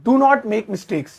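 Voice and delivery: "Do not make mistakes" drawn out very slowly; slow, firm rule for the class; very slow dictation. Shown as a demonstration. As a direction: dictate it word by word. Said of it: "तो मैं क्या कहूंगा".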